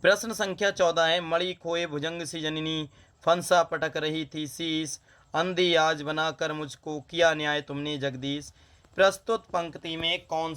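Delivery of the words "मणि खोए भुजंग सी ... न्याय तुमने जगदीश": poem recitation. Acted. Teacher reciting a verse to students, poem recitation.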